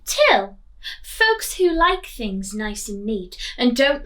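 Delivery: lively read-aloud storytelling voice; story reading. A narrator's reading. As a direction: read it like a picture book to children. Teacher reading picture book aloud.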